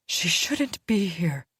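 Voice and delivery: a female wolf objecting to the stranger; wary she-wolf. Acted. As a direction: voice your doubt to the circle. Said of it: "one of the females spoke first".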